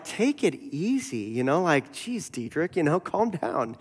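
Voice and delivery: mildly exasperated urging to settle down; dismissive calming. Retold or imitated. People around Bonhoeffer telling him to calm down, mildly exasperated. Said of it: "people around him were like".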